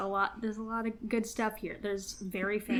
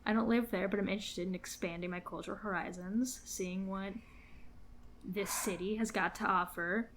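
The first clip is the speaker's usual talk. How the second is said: sleazy salesman. Pretend. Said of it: "can you please do this in a real estate voice".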